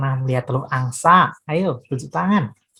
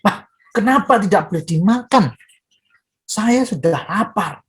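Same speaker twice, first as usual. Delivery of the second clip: angry; 5 semitones higher than usual. Acted.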